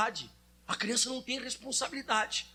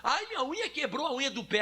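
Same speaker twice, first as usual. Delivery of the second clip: put-on higher, whining little boy; a kid fussing over his nail; whiny child; 3 semitones higher than usual. Preacher imitating his son whining to mom, higher. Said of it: "son's complaint".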